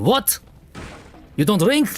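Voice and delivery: put-on very high, appalled, shocked Russian accent. Retelling Russian neighbors reacting to the speaker not drinking vodka; mock-shocked Russian accent. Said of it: "Like I've just destroyed their family".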